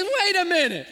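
loud, high-pitched excited imitation. Cashier to a generous customer, excited. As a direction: act out his thrilled disbelief. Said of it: "He got excited".

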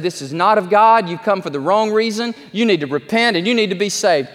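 high, loud call to repent; preacher's rebuke. Retold or imitated. Spurgeon tells the man to repent, high and loud. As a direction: rebuke him and plead for his soul. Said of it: "And Spurgeon said".

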